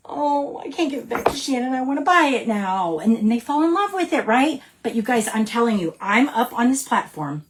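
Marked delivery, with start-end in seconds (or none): 0.1-3.0 smitten customer. Acted. Voices a smitten customer giving in.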